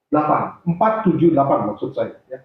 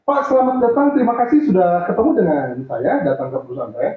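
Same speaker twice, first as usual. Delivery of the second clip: put-on quick young-client manner; faster than usual. Shown as a demonstration. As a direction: greet briskly, as to someone young. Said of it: "biasanya lebih cepat bicaranya".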